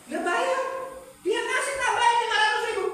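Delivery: high, loud exclamation; loud, high outburst; emphatic exclaim. Acted. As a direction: ring it out like a punchline. Exclaiming at the payment.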